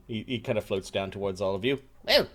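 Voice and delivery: ordinary talk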